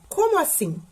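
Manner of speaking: "Como assim?" as a high-pitched question; puzzled-question demo on "Como assim?"; questioning tune. Shown as a demonstration. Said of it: "Uma frase interrogativa".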